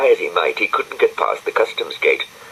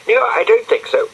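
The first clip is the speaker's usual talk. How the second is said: high, louder polite refusal; Florence declining; 5 dB louder than usual. A narrator's reading. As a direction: turn it down sweetly but firmly.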